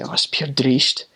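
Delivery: lightly voiced Scottish brogue, slow; a touch of Scots on the phrase; imitating Scottish saying; Scottish accent. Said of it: "they say".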